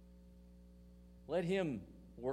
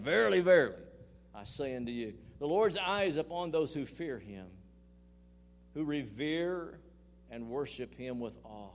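Jesus' words, proclaimed with rising fervour; a hint of a preacher's Jesus voice; preaching Jesus' words; 4 dB louder than usual. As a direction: call it out like the Lord speaking.

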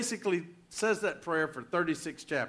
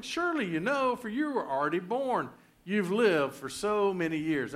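mock certainty, pitched up at the start; mild sarcasm; 3 semitones higher than usual. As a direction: read God's reply with a touch of sarcasm. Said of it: "sometimes you gotta hear the sarcasm".

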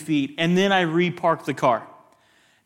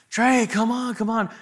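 higher-pitched call to a friend; 6 semitones higher than usual. Retold or imitated. Friends calling back to lagging friend.

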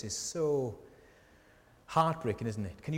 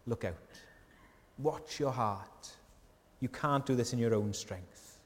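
gentle, tender. Acted. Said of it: "Jesus is gently and tenderly showing you".

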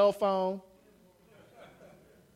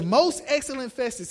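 respectful; 3 semitones higher than usual. Retold or imitated. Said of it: "he says this very respectedly".

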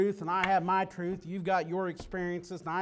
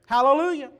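louder and higher, ringing out; fervent hallelujah; 4 semitones higher, 8 dB louder, faster than usual. Real, not acted. Preacher to congregation, exclaiming the word with joy. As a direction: proclaim it with joy. Repeats it with fervour.

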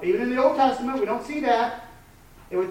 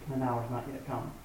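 hushed; 8 semitones lower, 10 dB quieter than usual. Retold or imitated. Quoting Jesus, hushed.

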